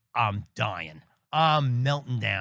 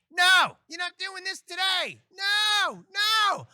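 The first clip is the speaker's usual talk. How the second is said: screaming at him; slower than usual. Retold or imitated. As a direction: scream it at him, refusing to hear it. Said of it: "she starts screaming at me".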